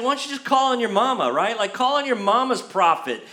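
quick mock dismissal; acted-out snide suggestion; throwing shade. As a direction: send them off with playful sass. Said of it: "he's throwing shade at him".

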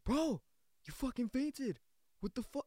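mock an annoyed but shaken friend; kinda mad. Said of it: "he was kinda mad".

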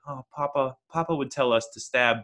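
lightly voiced eerie rich man; a hint of an unhinged heir recalling Papa; slight creepy lilt; creepy billionaire voice. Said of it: "he talks like this".

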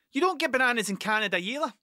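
quick comeback to the Canadian; quick retort. Retold or imitated. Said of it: "That's what I said".

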